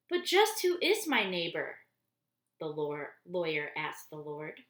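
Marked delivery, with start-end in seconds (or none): 0.1-1.8 puzzled question. A narrator's reading. Lawyer's puzzled question in story.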